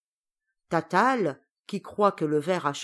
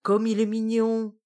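higher, louder cooing delight; 4 semitones higher, 5 dB louder than usual. Acted. Witch gushing to her cousin about the worm, cooing. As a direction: gush over something cute. Tatale coos over the worm.

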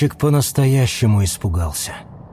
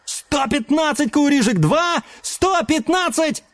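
high, delighted auction call; rapturous auctioneer rattle; 14 semitones higher than usual. Acted. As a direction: rattle off the bid with glee. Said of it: "восторженно протарабанил Мэтт".

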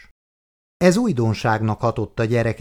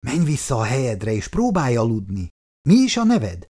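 sleepy carer. Acted. Sleepy carer answers the girl.

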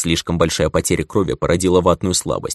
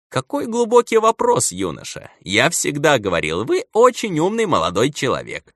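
drugged doctor; 9 semitones higher than usual. Acted. Drugged doctor answers dreamily.

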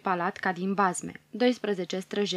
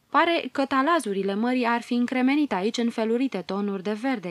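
exclaiming; 3 semitones higher, 3 dB louder than usual. Acted. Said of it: "exclamă Mioara".

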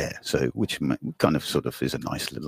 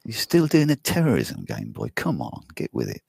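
mocking taunt; 5 semitones higher than usual. Mock taunt at outdated terrorists.

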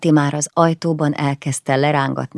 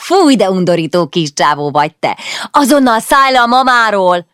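mock disgust; 6 semitones higher, 10 dB louder than usual. Sister disgusted, orders brother off.

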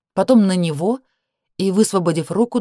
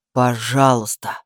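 low slow plea; 6 semitones lower, slower than usual. Acted. Danil pleads.

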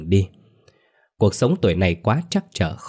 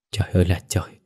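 choked up; faster than usual. Acted. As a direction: murmur Trời ơi là trời, holding back tears. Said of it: "nghẹn ngào".

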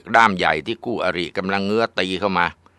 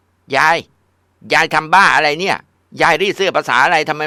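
high, loud furious shrieking at grandma; screaming tantrum; 10 semitones higher, 5 dB louder than usual. Acted. Granddaughter screams at grandma over a burnt shirt, furious tantrum. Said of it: "แกก็โวยวายขึ้นมา".

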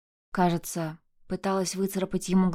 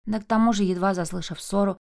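plain reading voice

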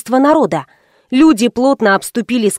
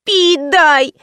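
put-on higher, pestering child's whine; nagging whine; 5 semitones higher than usual. Girl pesters mother for water, whining. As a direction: pester like a thirsty kid. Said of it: "зудела девочка".

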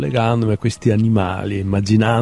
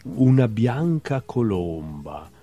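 measured literary recital with lifted titles; poetry reading; slower than usual. Acted. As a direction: read short animal poems, letting each ending drop away. Reads own poems aloud. (lettura poetica recitata)

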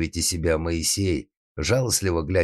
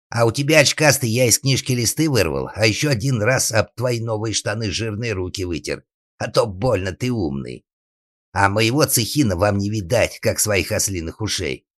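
loud, higher-pitched cheeky jeer; shouted taunt; 5 semitones higher, 4 dB louder than usual. Acted. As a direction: taunt the brother across the fence. Boy shouts taunts from afar.

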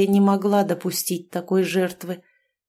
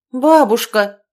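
sharp, much louder call-out; a strict loud address; stern call; 3 semitones higher, 9 dB louder, slower than usual. A narrator's reading. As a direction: call her back, stern and firm. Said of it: "строго окликнула".

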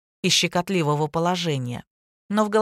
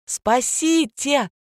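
slow, higher-pitched yell; 6 semitones higher, much slower than usual. A narrator's reading. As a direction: stretch the cry for rescue. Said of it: "заорала неверная супруга". (медленный крик, голос выше)

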